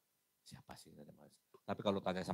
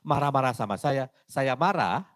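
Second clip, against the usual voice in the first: louder, raised pitch; emphatic; 4 semitones higher, 7 dB louder than usual. Real, not acted. Preacher warning about answering an angry madman, loudly. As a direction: push it hard and loud.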